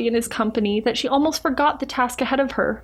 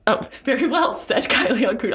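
laughing while reading. Real, not acted. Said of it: "pronouncing it correctly".

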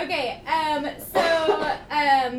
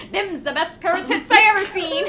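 put-on Cockney accent; 3 semitones higher than usual. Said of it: "in, like, Cockney British accent".

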